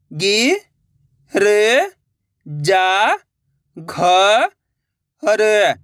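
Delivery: गि, र, जा, घ, र each held alone; syllable by syllable. Shown as a demonstration. Teacher reading the vowel sign directly, syllable by syllable. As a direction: sound out गि, र, जा, घ, र singly. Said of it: "direct मात्रा का उच्चारण करके पढ़ेंगे".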